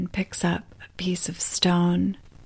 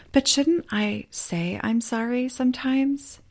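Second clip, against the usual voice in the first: unsure questioning; 3 semitones higher than usual. Acted. You question the wise woman.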